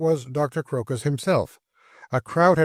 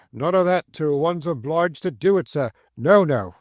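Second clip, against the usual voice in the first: very loud voice; 2 semitones higher than usual. Acted. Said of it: "says in a very loud voice".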